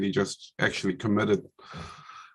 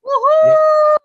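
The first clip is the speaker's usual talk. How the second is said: very high, loud whoop of joy; excited cheer; 11 dB louder than usual. Real, not acted. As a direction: let out a winning whoop. Winner cheers at being named.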